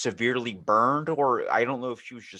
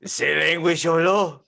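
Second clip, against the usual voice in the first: mock French accent; 6 semitones higher, 7 dB louder, slower than usual. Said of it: "choking on, like, a croissant".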